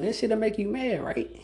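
breathy whispered aside. Real, not acted. Whispering to listeners about an annoying boss. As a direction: drop to a whisper for emphasis.

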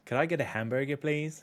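a shaky try at an American accent; attempted American accent. Shown as a demonstration. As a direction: order a burger in your best American accent. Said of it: "Do your best American accent right now".

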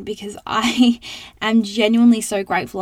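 real laughter breaking into the words; giggling while saying it; laughing. Real, not acted. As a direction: laugh through it, genuinely. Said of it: "I'm laughing because".

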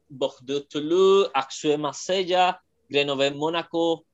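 team names in a French accent. Shown as a demonstration. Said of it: "Me sale rápido el acento francés".

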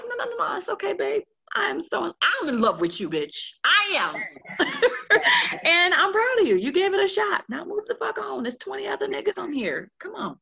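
giggly, loud comforting self-talk; laughing self-reassurance. Shown as a demonstration. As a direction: cheer yourself on while cracking up. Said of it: "It's like".

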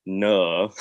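put-on drawn into her Mancunian accent; copied Mancunian accent. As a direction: blurt it back in borrowed Mancunian. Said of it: "I always do this accent".

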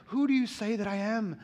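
tender. Retold or imitated. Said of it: "he's being real tender here and real delicate".

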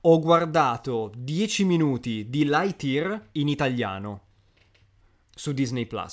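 slow "ho guardato dieci minuti", long hesitant silence before "su Disney Plus"; telling pause before "su Disney Plus". Real, not acted. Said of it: "Questo silenzio in mezzo".

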